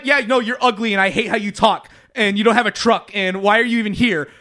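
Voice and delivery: mock-scornful, lightly heated rant; run-on mock complaint; retold annoyance. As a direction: imitate a blunt, irritated brush-off. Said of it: "She got so fucking mad".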